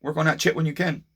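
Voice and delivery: high, loud, easygoing reassurance at the start; breezy friendly neighbor voice, high at the start; imitating neighbor. Neighbor waving off the delay, breezy and high. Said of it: "He's like".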